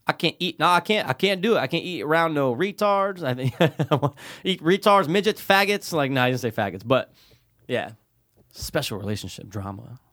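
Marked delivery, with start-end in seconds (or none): 0.1-5.9 underbite. Retold or imitated. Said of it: "I'm doing the underbite, guys".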